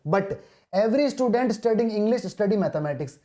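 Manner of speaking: reading each word out very slowly; slow dictation. Shown as a demonstration. Teacher reading the question aloud to students, very slowly. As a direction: spell the question out word by word for the class.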